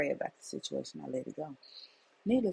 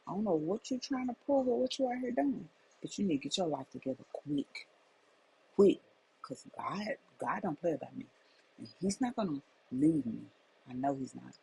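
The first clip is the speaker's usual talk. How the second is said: retold livid scolding; 3 dB louder than usual. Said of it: "I was so livid".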